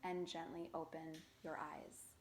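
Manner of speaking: measured meditation voice with long pauses; guided meditation. Acted. Yoga teacher guiding beginners through a body scan, calm guided meditation. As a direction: guide them calmly, phrase by phrase, leaving space.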